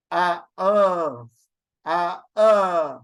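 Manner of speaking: ah, uh as a drawn-out wavering vowel; vibrating vowel. Shown as a demonstration. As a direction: stretch ah, uh in two pulses. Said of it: "it's like vibrating".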